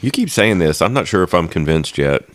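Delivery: dry sarcastic tease; deadpan mock doubt. Real, not acted. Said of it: "That was sarcasm".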